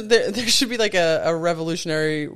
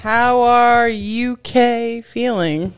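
mock English accent; 4 semitones higher, much slower than usual. Pun in put-on accent.

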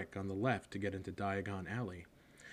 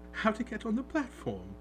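kindly; 12 semitones higher, 3 dB louder than usual. A narrator's reading. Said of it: "she said kindly".

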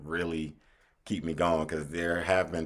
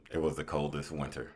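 narrator voice; 4 dB quieter than usual. Shown as a demonstration. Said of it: "Do it in the Ringo voice on the show".

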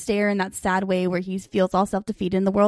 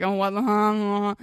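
awkward confusion; 2 semitones lower, 3 dB quieter, slower than usual. Retold or imitated. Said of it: "'cause he's awkward".

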